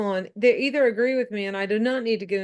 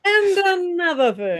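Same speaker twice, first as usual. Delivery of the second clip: high, loud, drawn-out mock tirade; mock yelling; 10 semitones higher, 6 dB louder than usual. Co-host joining in the screen-yelling bit, mock outrage. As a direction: stretch it out like a ranter mid-rant. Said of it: "yelling at my screen".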